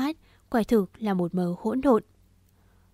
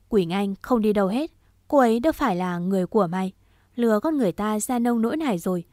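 louder, quick protective retort; angry protest; 4 dB louder, faster than usual. Acted. Vũ refuses to let Đạt take Quỳnh Anh, angry. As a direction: stand up for her, fast and forceful.

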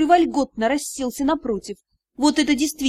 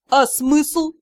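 feigned laziness; 3 dB louder than usual. Acted. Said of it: "с напускной линцой".

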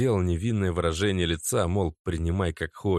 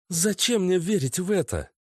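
high puzzled question; forced-smile disbelief; surprised girlfriend; 11 semitones higher than usual. A narrator's reading. Natasha asks Oleg, surprised and high. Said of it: "удивилась Наташа".

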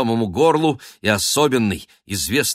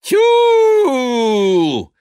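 high, loud, drawn-out hunter's whoop; hunting whoop; 7 dB louder than usual. Acted. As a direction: halloo like chasing a hare. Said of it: "кричал он".

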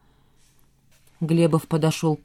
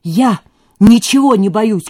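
loud, higher defiant cry; shouting; 4 semitones higher, 8 dB louder than usual. A narrator's reading. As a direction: shout your fearlessness. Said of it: "кричал Костя".

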